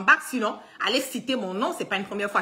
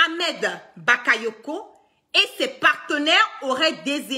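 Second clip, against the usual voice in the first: official statement read out; 3 semitones higher than usual. Acted. Reads an official communiqué. (lecture solennelle d'un communiqué officiel)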